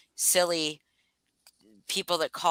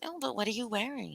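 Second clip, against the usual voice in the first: sexy voice; 5 semitones higher, 11 dB quieter than usual. Retold or imitated. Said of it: "And I'm like".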